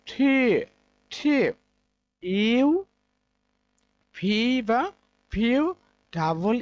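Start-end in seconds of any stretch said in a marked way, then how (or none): 0.1-1.4 টি said crisply as the model form, twice; correct pronunciation. Shown as a demonstration. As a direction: clip the টি cleanly for students. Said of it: "appropriate pronunciation is". (সঠিক টি উচ্চারণ)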